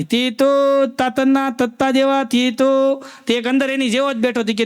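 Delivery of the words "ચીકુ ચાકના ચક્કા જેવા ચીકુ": slow stammered hawker's cry; stammering vendor call. Retold or imitated. Stammering vendor hawking chikoo on the train. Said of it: "એમ અવાજ મારે".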